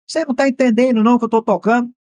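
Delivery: retold angry yell. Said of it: "e xinga".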